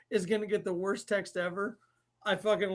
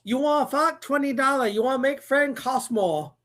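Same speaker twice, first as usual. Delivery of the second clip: put-on higher, louder movie-quote Asian accent; mock Asian accent; 4 semitones higher, 4 dB louder than usual. Host quoting a movie for a guessing game, loud mock Asian accent.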